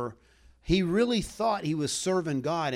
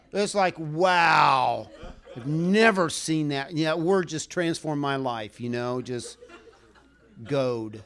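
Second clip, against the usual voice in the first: sarcastic awe; 2 semitones higher, 3 dB louder than usual. Pretend. Mocking how goad inspires anyone.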